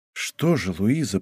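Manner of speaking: king murmuring to Louise after the storm, softly; whispered. A narrator's reading. The king murmurs gently to Louise, hushed. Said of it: "прошептал король".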